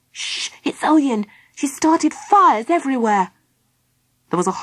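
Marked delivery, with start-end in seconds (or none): 0.1-3.3 urgent warning. Acted. Philip warns of the enemy's fires.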